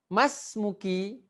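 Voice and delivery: slow model reading. Shown as a demonstration. Teacher stretching "Mas muki" slowly so the class can copy. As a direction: drag it out and lift the end.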